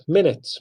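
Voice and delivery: MINute, said MIN-it; first-syllable stress. Shown as a demonstration. Teacher introducing a familiar word, MINute stressed first. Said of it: "stress is on the first syllable".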